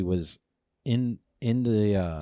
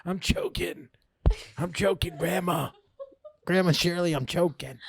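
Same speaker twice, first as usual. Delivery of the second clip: higher, half-crying mock panic; panicky pleading; 9 semitones higher than usual. Calling to grandma through the bathroom door, mock panicked pleading. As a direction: whimper for help like you're choking. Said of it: "I was kinda, like, panicky".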